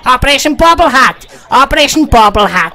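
punchy, repeated battle cry; loud, playful victory chant; loud taunting call. Pretend. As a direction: call it out loudly like a mission name. Gleeful taunt during the game.

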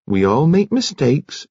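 slow, lifted, soothing tone; easy, motherly reassurance; comfortable reassurance. A narrator's reading. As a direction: console him gently, unhurried. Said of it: "said Nurse Kettle comfortably".

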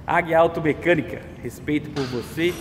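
soft, hoarse sore throat; quiet sign-off through a sore throat. Real, not acted. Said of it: "tô com a garganta inflamada".

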